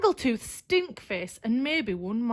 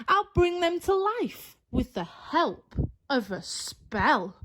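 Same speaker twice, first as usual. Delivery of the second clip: witch voice. Acted. Witch casting spell in story.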